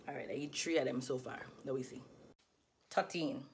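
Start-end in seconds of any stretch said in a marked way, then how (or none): 2.9-3.4 Crucian pronunciation of thirteen; Virgin Islands accent. Shown as a demonstration. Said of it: "so without my dialect".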